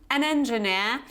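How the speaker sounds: British-accented engineer, final R left silent; British pronunciation. Shown as a demonstration. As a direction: give engineer a British ending, no R. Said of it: "This is the British pronunciation".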